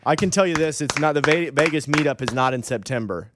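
emphatic. Real, not acted. Loudly cutting in on Vegas.

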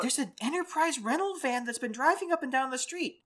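playful Minnesotan impersonation; Minnesotan accent. Acted. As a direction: put on a Minnesotan accent to report neighborhood gossip. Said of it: "Why are we suddenly Minnesotan?".

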